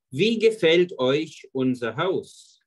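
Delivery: slow, every word spaced for learners; deliberate slow classroom German; slow model reading. Shown as a demonstration. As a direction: read it slowly so students can follow. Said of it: "Como agrada".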